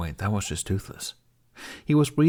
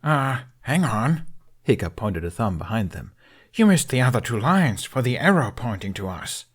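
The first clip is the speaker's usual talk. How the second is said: dry teasing; 2 semitones higher, 3 dB louder than usual. Acted. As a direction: needle him with fake helpfulness. Hiccup teasing the dragon.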